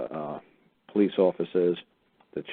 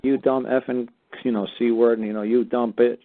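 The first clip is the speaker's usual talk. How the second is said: higher, louder mock telling-off; retold angry rant; 5 semitones higher, 4 dB louder than usual. Telling off the clerk on the phone, higher and louder angry rant. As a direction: replay the insults hot and loud. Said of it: "I was just going nuts on her".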